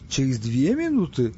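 slow, doubtful question; puzzled double-check. Acted. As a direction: ask back slowly, not quite getting it. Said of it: "снова переспросил тот". (растерянно переспрашивая)

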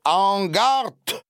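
high, loud command; command to fight. Acted. Count commands the duellists to start, high and loud. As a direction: snap the order to begin. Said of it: "скомандовал".

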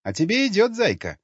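flirty woman. Acted. Flirty brunette teasing.

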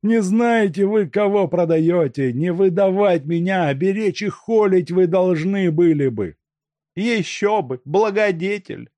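high, loud voice of a bandit boasting in defeat; proud bandit Makarka. A narrator's reading. Makarka warns the gang what they lose, boasting. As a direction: lord it over them though bound.

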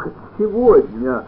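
high, loud, slow imploring; husband begging his wife not to use the nickname; begging plea. A narrator's reading. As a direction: plead with her desperately. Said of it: "взмолился Степанов".

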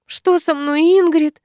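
whimpering. Acted. Woman in labour whimpering to Ingrid. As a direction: whimper the question. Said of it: "хнычет роженица".

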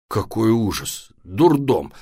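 mildly horrified dad; slow, exasperated exclamation; appalled. Acted. Папа в ужасе хватается за голову.

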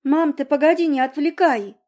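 put-on girl sternly hushing her mother. A narrator's reading. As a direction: shush her mother firmly. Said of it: "строго сказала ей девочка".

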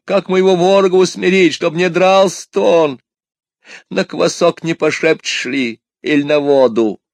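high-pitched lamenting peasant wife; woeful complaint. A narrator's reading. Wife laments her brutal husband to a wanderer, high-pitched complaint. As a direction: pour out your grievance high and insistent. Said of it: "жаловаться страннику на свою долю горемышную".

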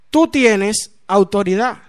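slow, deliberate, weighted words; solemn assurance. Retold or imitated. José telling the new convert he has authority, slowly and solemnly. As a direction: let each word land slowly.

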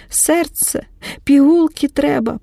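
a touch of panicked sobbing; lightly acted crying. A narrator's reading. Aida begs for heart pills, mildly crying. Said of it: "плаче Аїда".

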